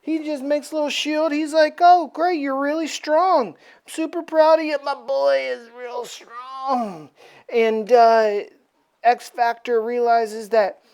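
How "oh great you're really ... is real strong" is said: hammed-up doting praise; not mad, proud. Apocalypse praising Death despite the attack, mock-proud. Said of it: "Apocalypse is not even mad".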